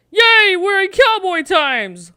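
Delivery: high, loud, drawn-out whoop of joy; real delight, slow and high; excited cheer. Real, not acted. Cheering on entering Wild West.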